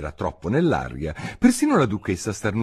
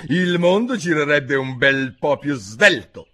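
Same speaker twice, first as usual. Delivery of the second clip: mild angry growl; 6 semitones higher, 4 dB louder than usual. Acted. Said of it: "ringhiò la duchessa indiperita".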